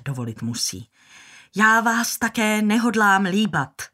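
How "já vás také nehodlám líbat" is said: indignant retort. Acted.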